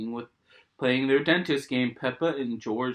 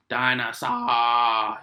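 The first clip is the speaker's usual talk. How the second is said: growl; 6 dB louder, much slower than usual. Acted. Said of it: "he growled".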